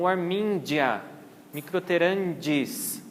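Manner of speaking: G in "warmingia" said as a DJ sound. Shown as a demonstration. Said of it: "tem som de D G". (G com som de DJ)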